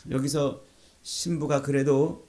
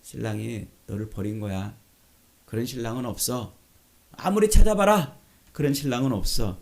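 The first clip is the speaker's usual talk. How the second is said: mocking; 4 semitones lower than usual. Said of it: "라고 지금 조롱하는 거예요".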